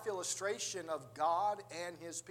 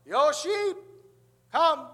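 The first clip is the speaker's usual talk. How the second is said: loud, high holler to a far-off flock; hollered call; 10 semitones higher, 14 dB louder, slower than usual. Retold or imitated. Pastor calling his sheep on the hillside, hollered. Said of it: "this pastor just ho-, hollered out".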